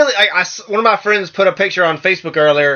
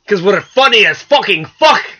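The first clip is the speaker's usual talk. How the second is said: higher-pitched, badly faked Scottish accent; terrible Scottish accent; 6 semitones higher, 4 dB louder than usual. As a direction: put on a hammy Scottish accent. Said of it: "That was a terrible accent".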